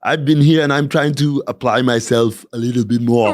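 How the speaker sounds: lightly voiced Austrian player trying harder; half-committed Austrian accent; toned-down Austrian accent. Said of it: "does sound like I have a cold".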